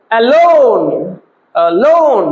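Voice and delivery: অ্যালোন with a drawn-out, stressed second syllable লোন. Shown as a demonstration. Teacher showing students the accented syllable, stress on লোন in অ্যালোন. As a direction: lean long on the লোন of অ্যালোন. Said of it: "অ্যালোনটার মধ্যে আমরা বেশি জোর দিচ্ছি".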